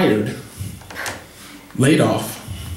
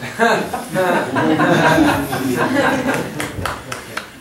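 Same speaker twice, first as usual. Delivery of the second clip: a long laugh at his own punchline. Real, not acted. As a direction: laugh at your own joke.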